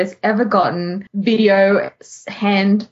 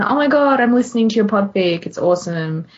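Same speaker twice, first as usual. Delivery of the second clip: imitating a gushing fan; faster than usual. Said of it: "it's tweeting, you know, someone".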